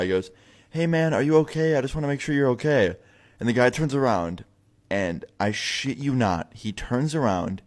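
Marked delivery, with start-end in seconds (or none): 0.7-3.0 imitated friend calling out, pitched up; mild mock yell. Friend from car window to man walking away, mild yell. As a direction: call after someone without really shouting. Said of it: "just yells at the guy".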